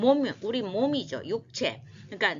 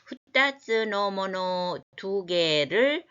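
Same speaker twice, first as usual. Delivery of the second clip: reciting by rote; slower than usual. Shown as a demonstration. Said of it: "teacher reads verse slowly".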